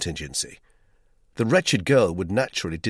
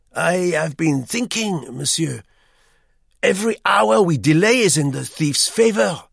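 high, loud, fussy Frenchman; eager hotel guest; 10 semitones higher, 8 dB louder than usual. A narrator's reading. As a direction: press him with busy insistence. Duclos urging action.

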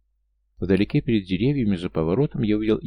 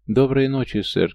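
hollow, gurgling voice, louder; 4 semitones higher, 4 dB louder than usual. Acted. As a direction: speak with a booming wet gurgle. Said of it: "каким-то гулким, булькающим голосом произнёс он".

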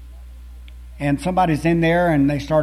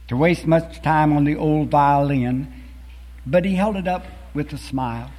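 poem recitation. Acted. Preacher reciting a beloved poem to the congregation, solemn and measured. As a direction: recite it like a cherished old poem.

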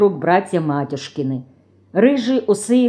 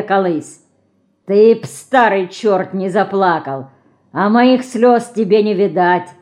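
threatening; 2 semitones higher, 4 dB louder than usual. Acted. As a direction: threaten him, spitting each line. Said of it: "Угрожающе бросил Павлуха". (угрожающе, на повышенных тонах)

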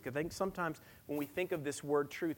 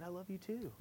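soft, slightly higher affectionate reply; tender father; 5 semitones higher, 8 dB quieter than usual. Retold or imitated. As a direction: answer a little child gently. Father answers his daughter tenderly.

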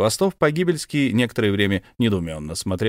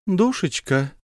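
affectionate call; 9 semitones higher, slower than usual. Acted. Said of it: "ласково позвала мужа".

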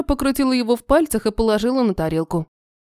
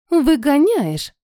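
slow, narrow-eyed question; suspicious; 4 semitones higher, much slower than usual. A narrator's reading. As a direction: drag it out with suspicion. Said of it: "сощурилась она". (подозрительно, медленно)

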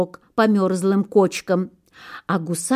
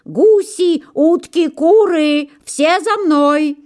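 high, loud rallying call; gander shouting; 8 semitones higher, 5 dB louder, slower than usual. A narrator's reading. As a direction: summon every bird in the yard. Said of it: "закричал".

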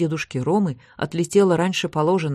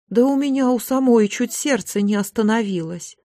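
higher-pitched, animated protest; agitated; 6 semitones higher than usual. A narrator's reading. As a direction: protest as the shaken widow. Indignant widow answers her daughter. (взволнованно, на повышенных тонах)

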